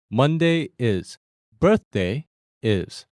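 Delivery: Monday is and Birthday is said slowly as two statements; statement intonation. Shown as a demonstration. Teacher explaining to learners, Monday is and Birthday is as slow statements. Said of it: "And that's a statement".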